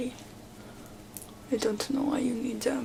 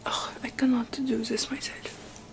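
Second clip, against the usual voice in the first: whispered queen roleplay; 3 dB louder than usual. Acted. Queen whispers to her visitor in a haughty roleplay. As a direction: play the queen dismissing a visitor, hushed.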